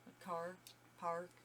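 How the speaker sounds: "car" and "park" with the R rolled strong; Canadian R's. Shown as a demonstration. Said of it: "the A R's".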